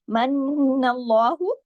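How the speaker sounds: slow मन्नल्लाहु, doubled mim held with nasal hum; tajweed recitation. Shown as a demonstration. Teacher demonstrating shadda to students, slow chant. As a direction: hold the shadda. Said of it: "मीम पे तशदीद है".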